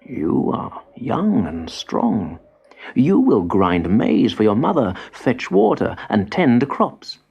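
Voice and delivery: put-on slow, hushed old man answer; calm. Grandfather calmly answers angry grandson, slow and hushed. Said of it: "The old man answered calmly".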